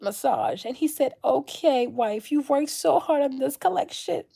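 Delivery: soft, high, put-on sugary voice; mock sweet influencer. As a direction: coo sweetly to the followers as a parody. Parody of influencer addressing followers.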